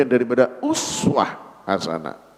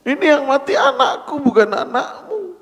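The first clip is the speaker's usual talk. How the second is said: bitter retort; 10 semitones higher than usual. Acted. Bereaved father snaps at comforter.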